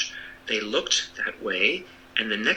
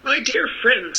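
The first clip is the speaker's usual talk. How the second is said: pleading little man; 13 semitones higher, 3 dB louder than usual. Acted.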